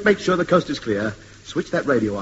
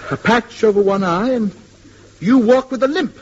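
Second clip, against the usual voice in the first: dawning alarm; 5 semitones higher, slower than usual. Acted. Man checking the stranger against the description, growing alarm. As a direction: tick off the clues, panic rising.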